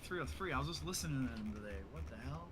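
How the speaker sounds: retelling a spooky surprise; surprised. Retold or imitated. Startled reaction retold.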